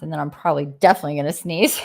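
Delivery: quick words through a laugh; laughing while talking. Real, not acted. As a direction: giggle through the line. Laughing about coming sneeze.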